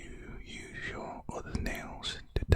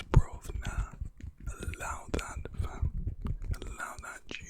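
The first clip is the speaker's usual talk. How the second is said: London roadman slang; 4 dB louder than usual. Shown as a demonstration. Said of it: "Makes me wanna talk like this".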